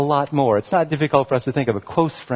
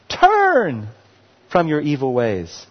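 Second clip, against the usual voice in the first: passionate plea; slower than usual. Acted. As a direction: cry out Turn, then let it fall. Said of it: "you see the passion in this?".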